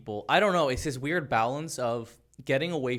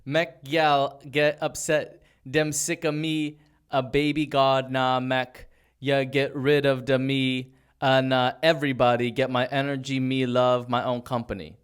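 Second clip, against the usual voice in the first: slow, stumbling Jamaican lyric read; halting patois reading; 7 dB louder than usual. Shown as a demonstration. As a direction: sound out the patois carefully. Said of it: "Try a different one".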